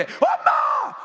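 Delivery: very high shouted 엄마, theatrically fake; daughter-in-law at her mother-in-law's funeral, hammed-up fake wail; fake crying. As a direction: put on a showy fake wail. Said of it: "그런 걸 연극이라고".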